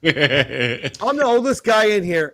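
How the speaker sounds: drawn-out, mildly outraged retort; mock indignation. Older man retelling his reply to "are you guys freshmen", mock indignant. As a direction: stretch it out, as if insulted.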